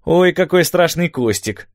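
high, drawn-out taunt; sarcastic mock fright. A narrator's reading. Gabby mocks Mando for jumping at a tumbleweed, sarcastic. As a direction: tease with exaggerated, slow alarm. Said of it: "съязвил Габби".

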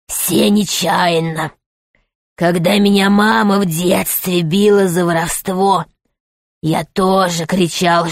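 a cruel rat boss punishing a servant; rat man. Acted. Rat lectures M, low, slow.

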